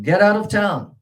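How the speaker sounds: "Get out of town" high and loud, stress on "out"; sheriff's shout, first part high. Shown as a demonstration. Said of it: "the first part is higher".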